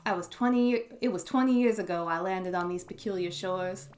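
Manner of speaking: put-on folksy country out-of-towner accent; hearty, folksy accent for a welcoming local. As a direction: play a friendly old-timer with a country accent. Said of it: "give him an accent".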